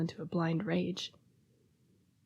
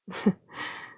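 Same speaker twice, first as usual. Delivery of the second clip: brief, voiceless chuckle. Acted. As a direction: laugh lightly on the breath. Soft laugh recalling human's kindness.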